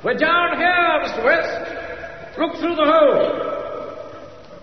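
high distant call up through a hole; calling from below. Acted. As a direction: shout up from the cellar.

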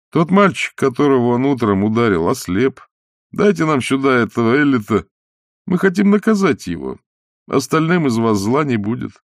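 brisk villager, says Эллита for Эллиса; brisk, not very angry. A narrator's reading. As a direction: press the demand briskly, barely angry. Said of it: "Парень заговорил бойко и не особенно сердито". (бойко, без особой злобы)

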